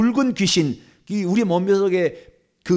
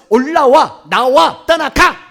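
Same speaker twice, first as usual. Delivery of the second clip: three loud punched orders; commands; 4 semitones higher, 9 dB louder, much slower than usual. Shown as a demonstration. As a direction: fire off each order separately, climbing at the end. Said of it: "이런 명령을".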